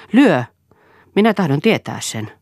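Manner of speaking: Lyö flung out high and loud, then pressing; defiant cry. A narrator's reading. Wife defies husband's threat. (vaimo uhmaa miestään korotetulla äänellä)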